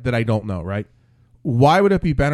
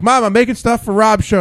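mock son's whine; 8 semitones higher, 7 dB louder than usual. Friend voiced in a retold scene.

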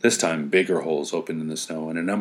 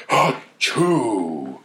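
sneeze; 2 semitones higher than usual. Acted. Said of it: "a mighty sneezing sound".

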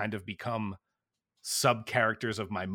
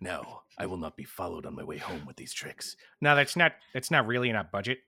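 Liam Neeson impression; 3 semitones lower than usual. Quoting Liam Neeson Ted cameo.

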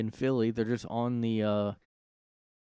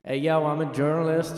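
mocking wannabe journalist; 6 semitones higher, 6 dB louder than usual. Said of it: "mocking the self-styled journalist".

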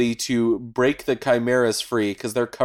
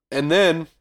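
ordinary delivery

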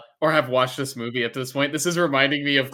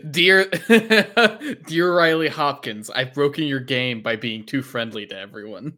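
laughing mock letter; 3 dB louder than usual. Mock letter to the game designer.

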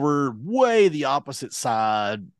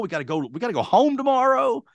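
very high, insistent pleading; retold urgent plea; 12 semitones higher than usual. Customer telling tow driver he's due home, high urgent plea.

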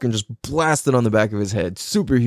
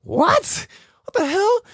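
high-pitched mock shock; baffled disbelief; slower than usual. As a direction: act out being stunned, voice shooting up. Retold reaction to surprising voice.

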